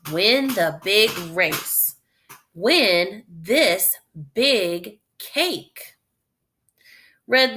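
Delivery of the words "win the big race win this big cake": drawn-out sign reading; spelling out the sign for kids; slow reading aloud. Acted. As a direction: read each word slowly and clearly. Reads sign text slowly.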